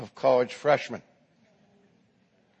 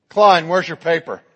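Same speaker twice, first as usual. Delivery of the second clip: demanding; 8 dB louder than usual. Acted. Professor calls the next student.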